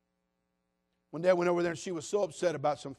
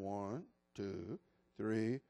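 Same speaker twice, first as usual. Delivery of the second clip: much lower, much softer counting; mock kid counting; 8 semitones lower, 7 dB quieter, much slower than usual. Child answering the parent's countdown, low and lazy. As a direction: count back like a stubborn kid.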